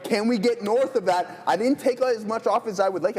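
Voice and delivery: worked-up trading-floor call; near yelling. Real, not acted. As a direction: call it out high and excited. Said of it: "I feel like I'm yelling right now".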